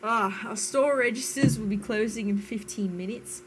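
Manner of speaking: mock Australian accent announcement. Shown as a demonstration. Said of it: "it's gonna start off American".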